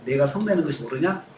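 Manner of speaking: low, even, gentle question; calm question. Shown as a demonstration. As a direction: ask it calmly, no anger. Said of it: "차분하게 하나님께서". (하나님이 요나에게 차분하고 낮게 묻듯)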